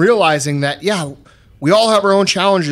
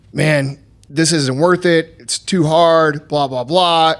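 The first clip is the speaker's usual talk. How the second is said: inner voice; slower than usual. Retold or imitated. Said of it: "that little voice in my head".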